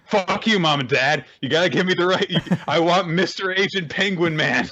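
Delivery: put-on half-laughing childish demand; mock tantrum. Telling of a childhood fit at parents, mock tantrum.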